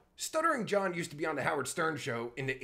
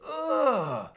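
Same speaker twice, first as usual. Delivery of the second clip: loud, high groan of disgust; 8 semitones higher, 6 dB louder than usual. Real, not acted. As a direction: groan loudly, revolted. Disgusted groan at streamer on screen.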